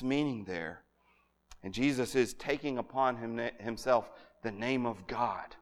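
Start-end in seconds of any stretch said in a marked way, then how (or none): 1.6-5.6 Jesus and himself, name of God spoken slowly and quietly, dropping low; slow, hushed emphasis. Shown as a demonstration. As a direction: linger softly on name of God. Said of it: "That's huge".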